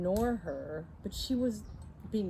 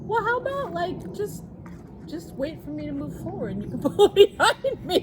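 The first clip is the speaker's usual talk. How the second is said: high, loud, laughing disbelief; laughing outrage; 11 semitones higher, 9 dB louder than usual. Real, not acted. Telling a friend the road rage, high and laughing.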